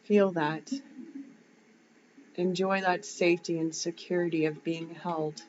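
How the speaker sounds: unhurried visualisation voice, lingering on the words; guided meditation. Shown as a demonstration. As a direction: guide them gently through the imagery, pausing between phrases. Leads a grounding visualisation.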